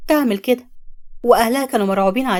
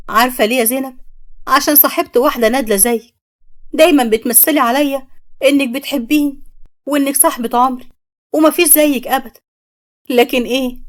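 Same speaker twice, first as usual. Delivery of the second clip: bitter accusation; 2 semitones higher than usual. Acted. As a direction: tear into the friend who betrayed you. Samia confronts the false friend.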